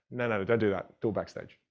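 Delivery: ordinary talk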